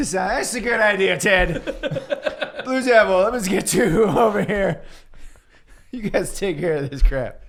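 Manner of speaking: laughing Booster. Acted. Booster sending Blue Beetle off with a laugh. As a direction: chuckle through the hand-off. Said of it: "Booster goes".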